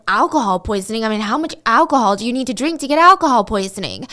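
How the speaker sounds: mildly alarmed, incredulous questioning; mock freak-out. Parents reacting to news from their daughter's friend, mild mock freak-out. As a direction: imitate parents reeling in disbelief. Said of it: "her parents start freaking out".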